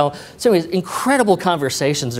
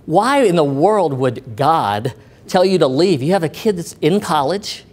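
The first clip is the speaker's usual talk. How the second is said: mild retold exasperation, drawn out at first; upset boss; 2 semitones higher than usual. Unbelieving boss challenges the employee's decision, mildly upset. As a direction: imitate an upset boss, slow opening question. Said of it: "really upset".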